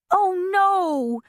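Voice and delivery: high, loud mock wail. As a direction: cry out in theatrical despair. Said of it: "she wailed".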